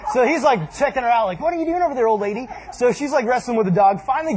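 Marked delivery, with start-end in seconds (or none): 1.4-2.5 puzzled neighbor. Retold or imitated. Neighbor challenges the odd woman.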